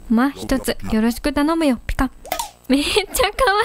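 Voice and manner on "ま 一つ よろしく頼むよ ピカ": lightly lowered tough-guy cat; スパーク. Acted. Reads Spark dialogue in gruff voice. (軽く低めのチンピラ口調)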